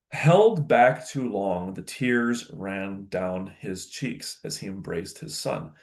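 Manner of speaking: slow, measured reading of an epic; story narration. Acted. Teacher reading a tearful reunion to students, measured narration.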